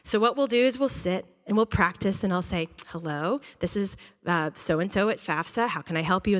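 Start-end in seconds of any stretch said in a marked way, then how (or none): 2.9-6.4 a lightly voiced, softer office greeting; role-play receptionist. Counselor role-playing the FAFSA office on the phone. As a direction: play the FAFSA agent answering. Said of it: "we'll role play the phone call".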